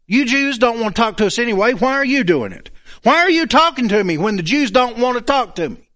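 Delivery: combative, pointed challenge; defensive. Acted. Samaritan woman challenging the stranger at the well, defensive. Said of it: "she's all defensive".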